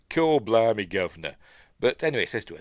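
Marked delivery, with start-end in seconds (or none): 0.1-1.4 hammed-up London accent; mock Cockney catchphrase. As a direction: put on a cartoonish London geezer voice. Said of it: "That's a London accent".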